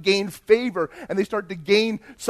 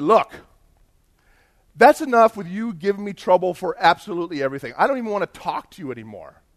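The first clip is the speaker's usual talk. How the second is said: acted fed-up anger; 4 dB louder than usual. Acted quarrel with his boss.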